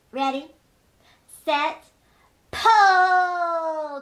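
building from steady to loud high shout; calling out. Acted. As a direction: count them in, ending with a big shout. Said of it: "called the bat".

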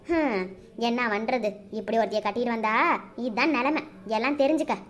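cold and scornful, ordering her out; scolding mother-in-law. Acted.

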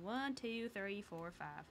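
counting in a Texan twang; Texan accent. Shown as a demonstration. Streamer replaying an accidental slip, Texan accent. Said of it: "say it like I was Texan".

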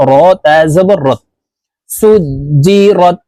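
"সুজিরত" drawn out, রত closed on a single t; ta caught once. Shown as a demonstration. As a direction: spell "র তা জবর রত", catching the final ত once. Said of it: "জজমওয়ালা তাকে একবার ধরতে হবে". ("রত"-এর শেষ ত একবার ধরে পড়ুন)

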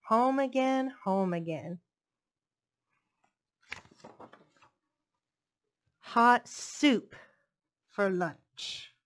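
measured picture-book narration; story reading. A narrator's reading. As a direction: read it like a children's story. Reads a picture book aloud.

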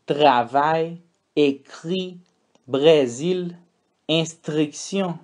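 French uvular R in Travail, écrit, Brésil, instruction; French R sounds. Shown as a demonstration. Teacher models the French R for students. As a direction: roll the French R from the throat in each word. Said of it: "esse é o som do R".

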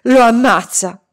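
loud fearful cry; Italian: grido di terrore; terrified thought. A narrator's reading. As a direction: blurt out the fear. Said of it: "pensammo tutti".

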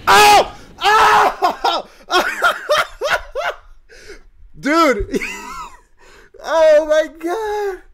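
high shrieks of joy broken by laughter; ecstatic screaming. Real, not acted. Gamer pulls the unit he chased, screaming with joy. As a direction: lose it completely over the pull.

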